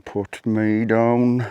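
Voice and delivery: slow, lightly voiced pleading frog; a hint of a grumpy frog. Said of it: "He's saying".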